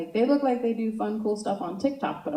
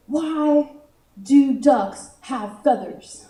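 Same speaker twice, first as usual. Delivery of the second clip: put-on drawn-out kid riddle delivery, starting high; slow, cocky little-kid joke setup; cocky six-year-old; 5 semitones higher, 5 dB louder, much slower than usual. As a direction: pose the riddle with a small child's confidence. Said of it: "this six-year-old confidence".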